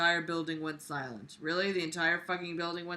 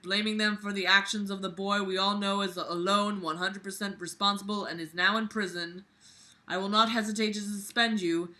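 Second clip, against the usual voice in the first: principal yelling. Acted. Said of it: "He then began yelling".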